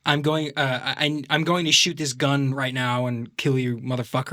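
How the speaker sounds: American action-film line through the nose; lightly put-on nasal American; American accent. Shown as a demonstration. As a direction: play an American movie tough guy. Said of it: "they talk through their nose".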